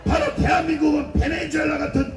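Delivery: preaching at full force to a crowd; fiery rally speech. Acted. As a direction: hammer each line out to a street rally.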